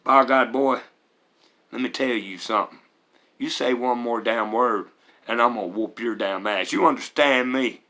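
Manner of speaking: a light impression of a threatening stepdad; lightly voiced, menacing father warning his boy; imitating his stepdad. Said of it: "let me see if I can imitate him".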